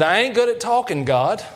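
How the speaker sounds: put-on high-pitched hick accent whining to God; redneck drawl. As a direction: play Moses as a Southern redneck. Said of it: "just think I'm a redneck".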